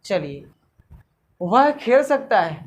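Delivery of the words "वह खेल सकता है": slow, deliberate example sentence, a bit louder; teacher spelling out वह खेल सकता है word by word; slow example read. Shown as a demonstration. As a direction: read it out slowly and loudly for the class. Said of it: "जी हाँ".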